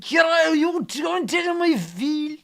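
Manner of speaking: high, drawn-out shouted Kerry line; hammed-up film line in Kerry accent. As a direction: bellow slowly in a mock Kerry accent. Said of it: "Wasn't it down in Kerry?".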